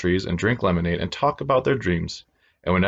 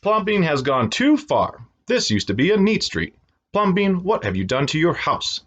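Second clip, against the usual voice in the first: mock outraged shout; 8 semitones higher than usual. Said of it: "the people shouted".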